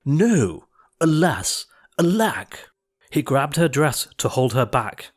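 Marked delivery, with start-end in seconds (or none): 0.1-2.7 a touch higher, mock tragic lament; prince crying out. A narrator's reading. Prince crying as Cindy runs, hammed-up lament. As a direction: wail it in hammed-up despair. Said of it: "the prince cried".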